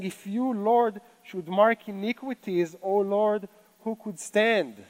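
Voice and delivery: high, urgent verse reading; fearful rhetorical question. Acted. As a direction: press the question with alarm, unbroken. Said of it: "a scary question".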